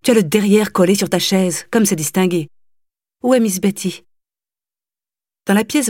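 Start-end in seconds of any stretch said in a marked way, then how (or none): 0.0-4.0 louder, reproachful nagging; scolding mother. Acted. Mother scolding her slouching daughter, sarcastic. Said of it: "lui cria-t-elle".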